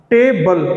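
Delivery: टेबल with the first syllable टे stressed, then falling. Shown as a demonstration. Teacher showing students where stress falls, stressing टे in टेबल. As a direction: lean on टे in टेबल. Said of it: "टे पे पड़ रहा है".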